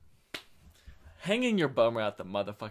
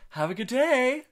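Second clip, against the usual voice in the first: much higher, louder mock cheer; fake-sweet spite; 13 semitones higher, 9 dB louder than usual. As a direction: chirp it with exaggerated, bitchy politeness. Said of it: "this is really fucking cunty".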